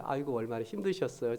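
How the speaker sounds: tender 아이고 얼마나 힘드셨어요; sympathetic. Retold or imitated. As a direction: comfort an elderly church member softly. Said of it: "제가 그 표현을 그렇게 제가 사-, 사용했어요".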